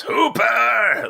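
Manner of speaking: wife calling out "Hooper!" to the dog, high and stretched. Retold or imitated. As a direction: call Hooper as if across the mall, H-o-o-p-e-r rising. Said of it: "like that".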